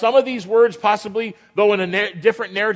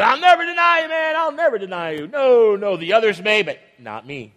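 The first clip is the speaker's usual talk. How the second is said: boastful Peter. Retold or imitated. Peter boasting he won't deny.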